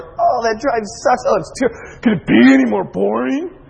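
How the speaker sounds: mild mock Texan grumble; Texan complaint. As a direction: groan it like a bored Texas driver. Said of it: "this is the way it is in Texas".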